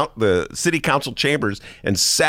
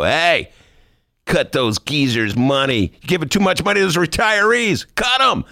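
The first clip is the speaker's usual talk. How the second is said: bossy high roller; 6 semitones higher than usual. Retold or imitated. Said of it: "a high roller who ... could just call him up and go".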